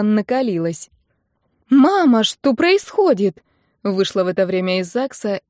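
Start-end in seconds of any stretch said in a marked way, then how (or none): 1.7-3.4 high, slow startled question; alarmed bride. A narrator's reading. Bride asks her mother what happens, high alarmed. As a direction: call out to mother, lost.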